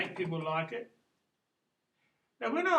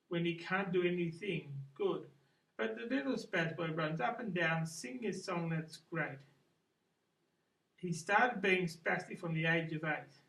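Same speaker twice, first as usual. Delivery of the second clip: lightly performed poem reading, slightly singsong; poem recital. Acted. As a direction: recite your own verse in measured phrases. Reads own poem aloud.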